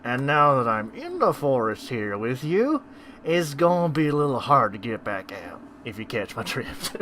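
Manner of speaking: words pushed through gritted teeth. Acted. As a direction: speak through clenched teeth. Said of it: "she speaks through her teeth".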